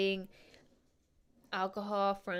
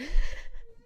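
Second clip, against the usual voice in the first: high squealing laugh burst; shrill cackling laugh; 8 dB louder than usual. Real, not acted. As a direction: break into a high, loud laugh. Loud high laugh after neighbors.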